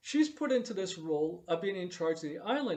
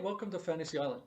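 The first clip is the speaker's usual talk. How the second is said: a dull, lifeless reading of the line; flat vanilla delivery; 2 semitones lower, 5 dB quieter, faster than usual. Retold or imitated. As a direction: toss the line off with no enthusiasm. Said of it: "it's so vanilla, and it's so weak".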